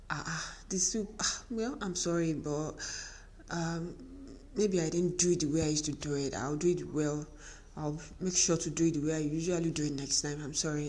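soft, apologetic wife voice; meek apology. Retold or imitated. Wife apologizing to husband over the soup, soft and meek. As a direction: humbly say sorry. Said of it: "all I did was".

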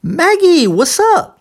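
high swooping "Maggie", "what's up" as "wassup"; repeat-after-me model. Shown as a demonstration. Teacher giving a second form to repeat, high with T dropped. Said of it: "eu utilizei três sons diferentes".

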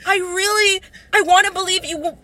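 mildly acted sob-story pleading; retold sobbing plea. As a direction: imitate a tearful, hurt plea. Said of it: "I was sobbing. And I was like".

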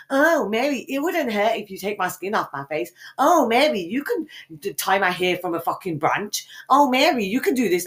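high, mocking sing-song; mocking quote. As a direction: mimic the friend egging her on. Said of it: "you're the one who said".

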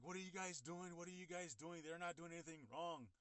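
imitating an upset onlooker; indignant protest. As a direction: re-enact protesting to police, moderate volume. Kids' mother protesting, retold.

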